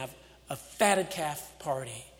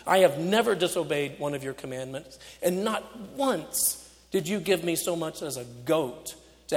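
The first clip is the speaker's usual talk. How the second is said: through clenched teeth. Acted. Older son complaining to his father, through clenched teeth. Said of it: "talks back through clenched teeth".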